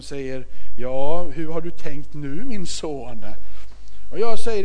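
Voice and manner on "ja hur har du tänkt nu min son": fatherly concern. Retold or imitated. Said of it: "den här faderliga omsorgen".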